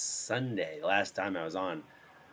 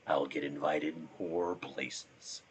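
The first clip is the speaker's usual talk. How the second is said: slow, slightly lowered drawl; cool deep voice; 2 semitones lower, much slower than usual. Shown as a demonstration. Man hoping for panel invites, slow deep voice. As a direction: stretch it out in a low register. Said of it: "if I sound cooler".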